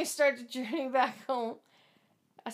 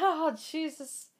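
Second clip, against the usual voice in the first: slow, laughing oh Jesus; slow embarrassed laugh; laughing groan; 6 dB quieter, slower than usual. Retold or imitated. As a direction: groan it through laughter, hand over face. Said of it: "and I'm going".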